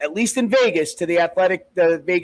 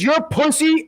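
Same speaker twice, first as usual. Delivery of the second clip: higher-pitched imitated jeer; retold insult, pitched up in mock anger; mock taunt; 8 semitones higher than usual. Retelling an insult from fight.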